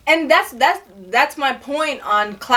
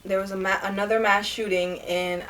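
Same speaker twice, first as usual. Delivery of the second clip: news reporter voice; 4 semitones lower, 6 dB quieter, faster than usual. Real, not acted. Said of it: "why I sound like a news reporter?".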